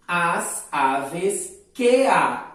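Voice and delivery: very slow, spaced poetic syllables; slow scansion. Shown as a demonstration. Teacher scanning the second verse for the class, slowly. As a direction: beat out "Onde canta" syllable by syllable. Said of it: "Percebam só a divisão poética".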